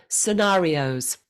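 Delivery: Scenarios said slowly, the tone dropping away at the end; falling tune at end. Shown as a demonstration. Coach showing Luis the falling end. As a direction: let Scenarios fall at the close. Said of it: "drop the tone at the end of the word".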